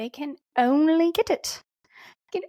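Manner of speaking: British accent slipping in. Speaker's explanation slips into an unplanned British accent mid-sentence. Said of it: "I don't know where that British accent just came from".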